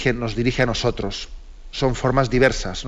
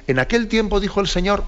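raised, sing-song Gospel proclamation; liturgical reading voice; 8 semitones higher than usual. Retold or imitated. Priest on the radio imitating how the Gospel is announced, raised and sing-song. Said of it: "tiene el riesgo de decir".

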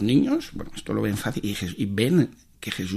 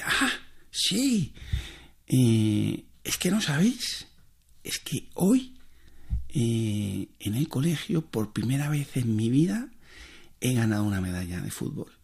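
niño pequeño; 4 dB quieter, slower than usual. Retold or imitated. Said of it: "el niño pequeño... dice".

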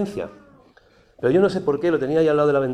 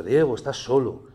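pitying inner voice; slower than usual. Retold or imitated. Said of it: "empezó como siempre".

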